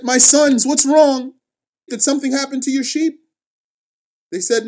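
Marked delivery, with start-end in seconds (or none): 0.0-3.2 a worried father's higher, louder questions; shaken father. Acted. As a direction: ask your sons anxiously, voice pitched up. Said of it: "he was shaken".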